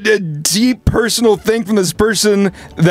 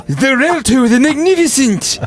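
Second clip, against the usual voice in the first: higher, grand barbarian boom; 8 semitones higher than usual. Shown as a demonstration. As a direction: announce it like a mighty warrior. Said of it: "that almost sounds like a barbarian".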